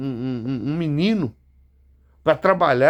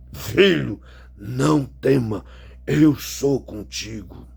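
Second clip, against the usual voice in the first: slow, drawn-out, solemn reassurance; God's reassuring words; 2 semitones lower, slower than usual. Retold or imitated. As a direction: speak slowly, as God comforting a son. Repeats God's comforting words. (fala de Deus, lenta e solene)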